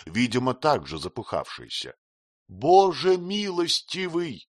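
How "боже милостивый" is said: higher, slow astonished cry; an old friend's delighted exclamation; exclaiming. A narrator's reading. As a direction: gasp it out in happy surprise. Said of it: "воскликнул Треддельс".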